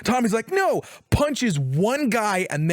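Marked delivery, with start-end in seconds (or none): 0.5-0.8 high acted cry of protest. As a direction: cry out as your friend gets shot. Retelling Tommy's cry as leg is blasted.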